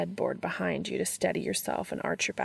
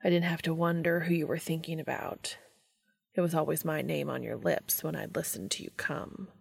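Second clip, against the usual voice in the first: softer, half-whispered confession; intimate whisper; 5 dB quieter than usual. A narrator's reading. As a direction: breathe the memory into his ear.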